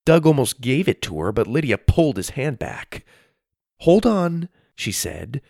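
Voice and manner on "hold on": urgent. A narrator's reading. Lydia stops Doug.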